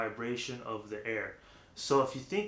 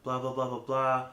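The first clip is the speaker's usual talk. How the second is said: smooth airy talk. Shown as a demonstration. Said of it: "smooth talking".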